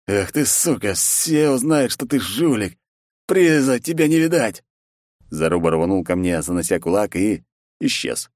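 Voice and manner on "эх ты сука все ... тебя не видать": furious threat. Acted. Zaruba curses the hero after losing the tournament, furious. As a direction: threaten him on the way out.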